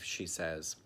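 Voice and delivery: ordinary talk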